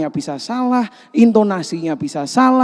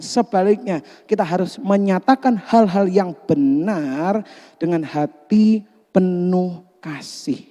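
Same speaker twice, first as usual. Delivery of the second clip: usual speaking voice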